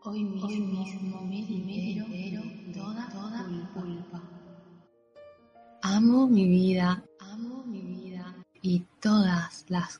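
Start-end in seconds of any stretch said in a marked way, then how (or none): 0.0-4.2 voz lejana y muy tenue; eco de fondo. Acted. Eco superpuesto de la afirmación. 7.2-8.3 voz lejana y muy tenue; eco de fondo. Acted. Eco de la frase anterior.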